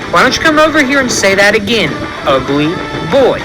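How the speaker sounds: put-on high dare, slowing down on ugly boy; repeated taunt. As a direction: drag out the insult to provoke him. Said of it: "I said".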